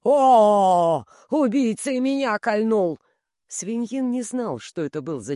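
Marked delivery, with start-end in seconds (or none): 0.0-3.0 a rolling bass howl, loud on the «О»; booming bass cry. A narrator's reading. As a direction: bellow it like a wounded big man. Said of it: "бас был раскатист". (раскатистый бас, вопль раненого)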